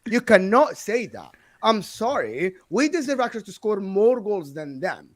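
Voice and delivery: emphatic, indignant rebuttal; heated fan argument, punching key words; fired up. Real, not acted. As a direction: lay down the verdict, outraged for your club. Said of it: "he's, he's fired up".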